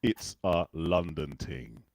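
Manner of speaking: slow London accent with Jamaican flavour; London patois, "ting" for thing; London Caribbean accent. Shown as a demonstration. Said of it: "that accent I've done there".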